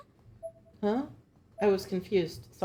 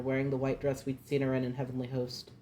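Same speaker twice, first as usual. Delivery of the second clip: reading through a yawn; words stretched by a yawn; 2 semitones lower than usual. Real, not acted. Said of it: "I am sorry for the yawning".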